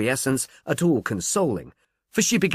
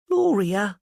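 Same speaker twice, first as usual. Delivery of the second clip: startled; 8 semitones higher than usual. A narrator's reading. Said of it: "Miss Bryant was startled".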